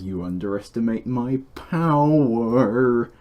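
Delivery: slow, lightly voiced Anakin line; a loose take on Anakin, drawn out; Anakin impression. Quoting his movie line to a friend, in a slow half-voiced Anakin impression. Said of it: "my impression of Anakin".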